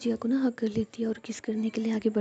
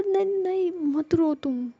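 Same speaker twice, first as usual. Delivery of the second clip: high, drawn-out soothing plea; pleading reassurance; 7 semitones higher, 4 dB louder, slower than usual. A narrator's reading. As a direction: hush someone about to cry, stretching the words. Jia hurries to soothe Ruhi. (ऊँचे, खिंचे सुर में चुप कराते हुए)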